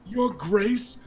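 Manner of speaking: put-on a young lord's angry outburst. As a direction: throw his words back at the king, hot with outrage. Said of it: "raises his voice".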